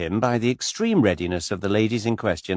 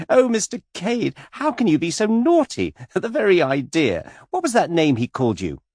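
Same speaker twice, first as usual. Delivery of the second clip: much higher, louder, giggling coquette; giggly flirt; 10 semitones higher, 4 dB louder than usual. A narrator's reading. Miss Taylor scolding Mister Cade playfully, high and giggly. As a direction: squeal it out, flirting.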